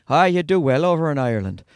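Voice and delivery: put-on a touch of lilting Irish accent; lightly imitated Irish lilt; musical Irish sing-song. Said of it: "Musical sing-song voices".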